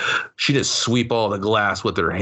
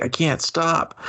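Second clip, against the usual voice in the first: mock crying plea; 8 semitones higher, slower than usual. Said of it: "She's like".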